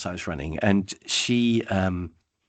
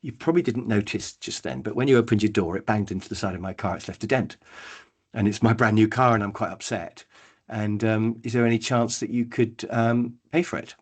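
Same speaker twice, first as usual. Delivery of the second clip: calm and polite. Shown as a demonstration. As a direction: ask it gently without anger. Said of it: "just calmly say".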